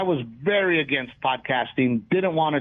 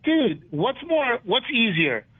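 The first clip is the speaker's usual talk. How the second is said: mock easygoing advice; 3 semitones higher than usual. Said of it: "And I'm like".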